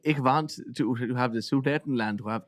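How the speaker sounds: mock German accent. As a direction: play Hitler with a hammed-up German accent. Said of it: "What is that accent?".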